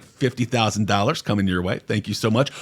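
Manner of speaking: mock sweet offer. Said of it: "ice was like".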